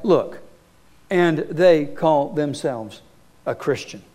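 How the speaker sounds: scornful quote. Retold or imitated. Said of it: "you'll hear things like".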